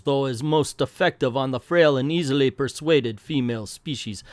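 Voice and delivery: half-hearted Russian comic-book villain; villain's boast in a shaky Russian accent; attempted Russian accent. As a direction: try a loose Russian accent, announcing the scheme. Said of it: "I can't do the Russian accent anymore".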